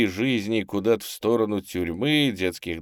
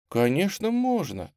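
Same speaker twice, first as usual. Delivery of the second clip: high, gentle reassurance; tender; 11 semitones higher than usual. A narrator's reading. Tamara answering a timid girl from the pipe, tender. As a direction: answer affectionately. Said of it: "ласково ответила Тамара".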